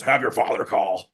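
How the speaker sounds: lightly voiced eerie mirror voice; a hint of something uncanny speaking; weird voice. Possessed mirror cutting off the call, lightly eerie. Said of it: "with this really weird voice".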